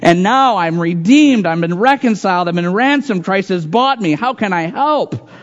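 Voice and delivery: swelling joyful testimony; joyful gratitude. Retold or imitated. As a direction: pour out amazed thankfulness. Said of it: "Or do we sing with".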